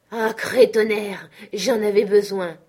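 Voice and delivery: loud exclamation after a drink; hearty oath. Acted. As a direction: draw out the oath loudly, with relief. Blessé soulagé après avoir bu. (juron lancé fort, avec soulagement)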